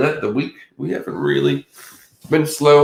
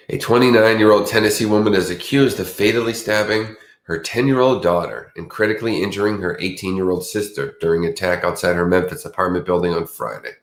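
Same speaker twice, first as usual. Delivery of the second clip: news read. Real, not acted. Reads a news story aloud.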